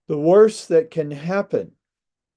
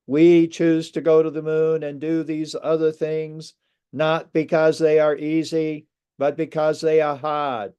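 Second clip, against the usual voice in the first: put-on light Boston accent with dropped r in hard; 4 semitones higher than usual. Lecturer quoting Kennedy's moon speech in a mild Boston accent. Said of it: "he said it in his Boston accent".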